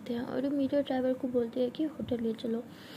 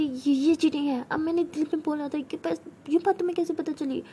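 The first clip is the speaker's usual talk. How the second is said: flustered protest; 4 semitones higher, 4 dB louder than usual. Acted.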